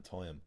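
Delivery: "time" said in two syllables; double-syllable Dublin pronunciation. Shown as a demonstration. Dubliner giving an example of double syllables, "time" in two beats. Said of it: "you'd have double syllables".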